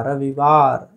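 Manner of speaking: रविवार low and careful, short i in रवि; correct ravivar. Shown as a demonstration. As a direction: say रविवार slowly with a short vowel i. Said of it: "छोटी की मात्रा".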